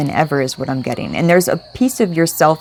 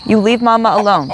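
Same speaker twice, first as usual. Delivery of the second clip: scolding the dog; 4 semitones higher than usual. Real, not acted. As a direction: tell the dog off sharply.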